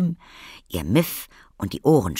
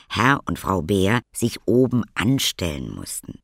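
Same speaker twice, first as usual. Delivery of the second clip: usual speaking voice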